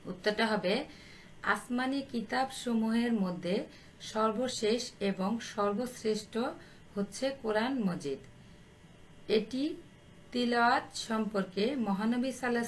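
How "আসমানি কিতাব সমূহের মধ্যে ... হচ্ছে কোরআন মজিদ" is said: measured pace with pauses between phrases; slow dictation. Real, not acted. Teacher dictating the answer for pupils to write, slowly. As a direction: dictate it slowly for note-taking. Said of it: "আমি আস্তে আস্তে বলছি".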